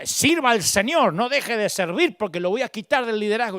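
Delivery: lightly voiced pastor insisting; pushy pastor. Pastor pressuring a struggling leader.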